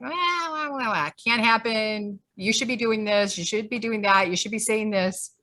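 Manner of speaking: mock the online critics like whiny babies; mocking whine. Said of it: "they're all like".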